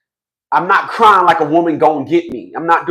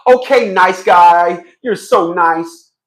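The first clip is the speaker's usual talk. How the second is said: mock naive; 4 dB louder, much slower than usual. Wife's naive reply, mocked.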